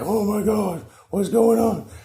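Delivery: high-pitched mock panic; astounded toad. Toad watching the gnome's crazy dance, astounded. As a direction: exclaim it in high, bewildered amazement. Toad's mind blown by dance.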